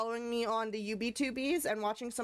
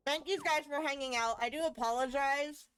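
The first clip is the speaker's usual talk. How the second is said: talking with a mouthful of food; mouth full; 3 semitones higher than usual. Real, not acted. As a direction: speak around a bite of food. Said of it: "I'm talking with food in my mouth".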